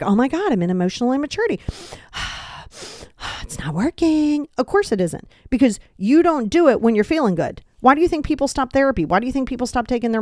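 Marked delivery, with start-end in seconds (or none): 0.0-4.5 mock frustration. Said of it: "you're gonna be like".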